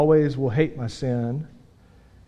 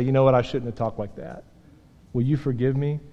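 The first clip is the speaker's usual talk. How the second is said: gentle apology; 4 semitones lower, 5 dB quieter than usual. Retold or imitated. Father apologizing to his kids.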